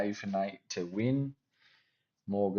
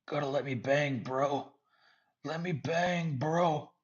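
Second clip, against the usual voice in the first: high, hyped imitation of a fighter; mock fighter catchphrase; 6 semitones higher than usual. Imitating a fighter hyping himself up for fans.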